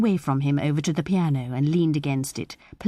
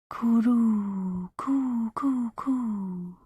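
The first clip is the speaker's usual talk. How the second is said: high drawn-out coos, getting softer; dove cooing; 5 semitones higher, 3 dB quieter, much slower than usual. A narrator's reading. The doves sound from the quiet, soft high cooing. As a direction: imitate a dove calling from the quiet. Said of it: "sounded from the quiet".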